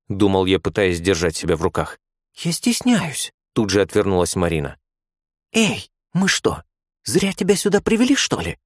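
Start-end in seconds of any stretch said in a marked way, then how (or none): 2.4-3.3 put-on shy young girl. A narrator's reading. Marina turning away from the patient, bashful. 5.5-8.6 indignant nurse. A narrator's reading. Nurse scolding shy Marina, indignant. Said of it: "возмутилась вторая".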